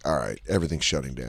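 put-on low, soft drunken resignation; quiet, deep, acted shutdown; mock fading out. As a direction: sink down as if powering off. Acting out the body giving out.

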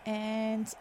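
tentative put-on British commentary; hesitant mock-British accent; attempted British accent. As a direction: try out a British announcer. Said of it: "try to do a Brit-, a British".

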